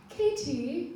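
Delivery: hint of a small girl, rising Katie; little girl calling. Tired girl on the hike calling her leader, rising. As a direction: call her name gently like a tired kid. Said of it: "she's like".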